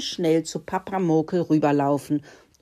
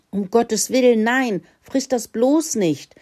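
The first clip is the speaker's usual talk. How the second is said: alarmed warning; 5 semitones higher, 5 dB louder than usual. Acted. Father warns pig off mushrooms.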